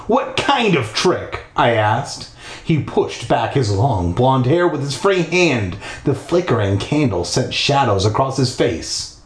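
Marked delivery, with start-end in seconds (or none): 0.1-1.4 high, slow question; wary questioning. Acted. Kid questioning the captor's trick, wary high voice. 2.6-9.2 measured storytelling read; story narration. A narrator's reading. Narrator leading listeners through a creepy house, storytelling voice.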